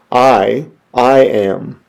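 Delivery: "I" set apart by a pause, then "I am"; stress on I AM. Shown as a demonstration. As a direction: lean firmly on "I am". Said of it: "The stress is on the I am".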